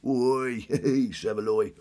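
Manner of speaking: loud cockney call of oi; Ray Winstone cockney. Retold or imitated. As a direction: bark it like a London geezer. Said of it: "Ray Winston driving a van".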